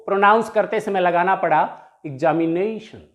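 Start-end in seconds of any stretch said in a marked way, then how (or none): 2.0-3.0 examination with NA stressed and lengthened; examination, stressed on its second-last syllable; greater breath force on NA. Shown as a demonstration. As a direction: lean on the NA in examination. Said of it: "like this".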